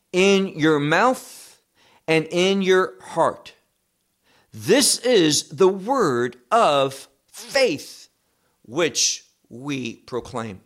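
slow, weighty reading of the verse, stretching each phrase; slow scripture reading. Shown as a demonstration. Preacher reading Romans to his congregation, slow and weighty. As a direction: read the verse slowly as holy words. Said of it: "So he says".

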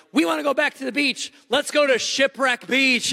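high-pitched imitation of excited kids; eager young boys. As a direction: plead like little boys wanting an outing. Voicing his young boys begging.

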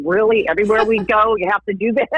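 light, put-on teenage exasperation; embarrassed teenager. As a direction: imitate a teen mildly embarrassed by a parent. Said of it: "I'd be a little embarrassed".

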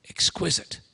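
breathed, unvoiced exquisite; whispered exquisite. Preacher savouring the woman's beauty, whispered. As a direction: whisper it as if in awe.

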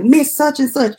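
high, repeated name-calling; pestering patient. Retold or imitated. Patient keeps calling the worker's name, pestering. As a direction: imitate someone insistently calling for attention. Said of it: "kept calling her name".

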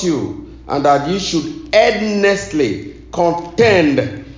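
measured reading in deliberate phrases; scripture reading. Real, not acted. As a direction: proclaim the verse to a congregation. Reads scripture to congregation.

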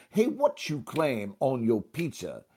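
bouncy call, leaning on "claim"; rhythmic game call. Shown as a demonstration. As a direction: swing "Hey, what you claim" to a beat. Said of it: "rhythm helps immeasurably".

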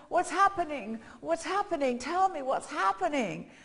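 insistent retold questions, calling out; crying out. Blind beggar asks the passing crowd, crying out. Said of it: "he cries out and he says".

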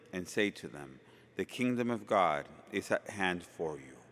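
solemn liturgical proclamation; Gospel reading. Acted.

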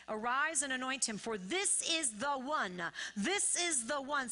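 slow, weighty declaration of God's choice; emphatic scripture proclamation. Acted. Preacher reads God's choice to the church, emphatic proclamation. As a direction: proclaim it from the pulpit, drawing words out.

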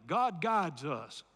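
God guides us, slowed for echo; slow, low God guides us; slow call to repeat. Shown as a demonstration. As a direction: lead the congregation in the words. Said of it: "Say that with me".

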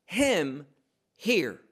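"him" weighty and separate, then a short pause; stress on HIM. Shown as a demonstration. Preacher rereading the cloud's words, "him" emphatic. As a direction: punch "him", let "hear" stand alone. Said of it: "Him is emphatic".

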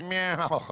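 small, weak little meow; timid meow. Shown as a demonstration. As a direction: meow like a scared kitten. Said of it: "you've been so afraid".

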